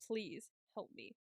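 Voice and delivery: soft, slow imitation of a drugged plea; dazed plea. Medicated Nomi visiting Will in his car, dazed pleading. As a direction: plead weakly and slowly, as if medicated. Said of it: "like, dazed".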